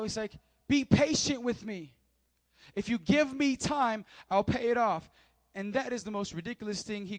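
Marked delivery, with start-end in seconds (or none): 0.7-5.1 crying out. Acted. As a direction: plead loudly, stretching out the appeal. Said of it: "he cries out".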